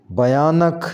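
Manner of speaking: भयानक with a clear 'a' in the first syllable; correct pronunciation. Shown as a demonstration. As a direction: say भयानक as 'bha-yaa-nak'. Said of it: "सही तलफ़ुज़ इसका होगा". (भयानक के 'भ' पर ज़बर बोलें)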